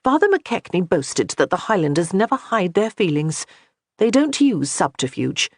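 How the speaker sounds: a touch of a wounded noblewoman daring her to speak plainly; lightly voiced proud young lady.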